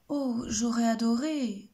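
slow, overly sweet fib; fox lying sweetly. Acted. Fox lies to Hedgehog about wanting a kiss. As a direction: fake regret, laid on thick. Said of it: "ment Renard".

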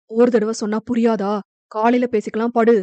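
"காலையில பேசிக்கலாம்" pressed out in a hot, hard voice; fiery anger. Acted. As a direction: shut her down with fire in the voice. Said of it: "குரலில் அப்படி ஒரு தீ". ("காலையில பேசிக்கலாம்" கோபத் தீயுடன்)

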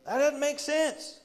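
very high, slow incredulity; hammed-up bewilderment, stretched out; mock disbelief. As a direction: push the baffled protest way up high. Repeats acted disbelief at command.

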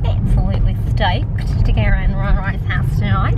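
wobbly mock Australian accent; attempted Australian accent. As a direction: put on a rough Australian twang. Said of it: "Why have we suddenly gone Australian?".

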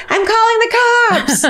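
high-pitched mock scream out the window; hammed-up high holler; retold scream. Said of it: "opened my window and screamed".

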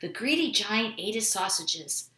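usual speaking voice

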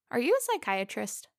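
abrupt nervous blurt. A narrator's reading. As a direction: let the question burst out before you can stop it. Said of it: "I blurted out".

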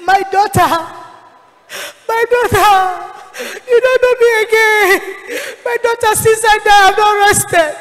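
a pleading, tearful dead mother; a hint of a crying soul in torment; mother's plea from hell. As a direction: beg your daughter for rest, voice rising. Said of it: "And then the person said".

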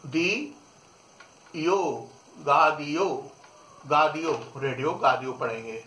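गा दियो, a throaty गा before दियो; French "radio" as गा दियो; French pronunciation. Shown as a demonstration. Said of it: "रेडियो को पढ़ेंगे अपन गा".

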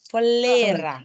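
เฟลเล รา with a distinct เฟ, then เล; separated first sound. Shown as a demonstration. Teacher models the word for students, syllables separated. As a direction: give เฟลเล รา its own little เฟ syllable first. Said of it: "ถ้านักเรียนไม่ออก เฟ".

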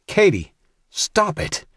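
high, slow desperate scream. A narrator's reading. Brother screaming at Katie to stop, high. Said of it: "screamed the red-faced Jack".

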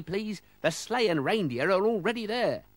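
Father Christmas voice. Acted. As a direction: play the cheery Santa stand-in.

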